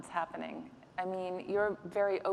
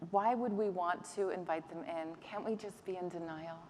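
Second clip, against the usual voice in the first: a touch of pleading in the question. Real, not acted. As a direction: plead gently, softening toward the end. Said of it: "You say that so pleadingly".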